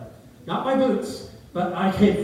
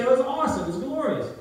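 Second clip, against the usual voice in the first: higher, elated exclamation; excited exclamation; 9 semitones higher, 4 dB louder than usual. Acted. Preacher voicing someone suddenly given sight, excited. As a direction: exclaim it with delighted awe, pitch jumping up. Excited answer of healed blind person.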